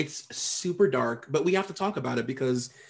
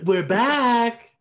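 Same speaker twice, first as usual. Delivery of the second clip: squeaky mock announcement; 9 semitones higher, 8 dB louder than usual. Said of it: "It's just us going".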